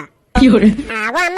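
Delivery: low, slow, stretched-out whine of अम्मा; drawn-out exasperated plea. Acted. Son groaning at his mother's odd blessing, drawn-out whine. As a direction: drag out अम्मा in mock despair.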